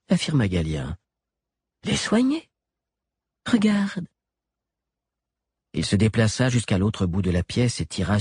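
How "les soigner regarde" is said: high, smug mad doctor; sly doctor. A narrator's reading. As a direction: show her, pleased with himself. Galien voiced.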